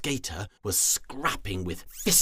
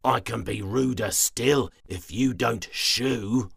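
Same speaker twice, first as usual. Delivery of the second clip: sour threat; 2 semitones higher, 6 dB louder than usual. Acted. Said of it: "with a sour smile".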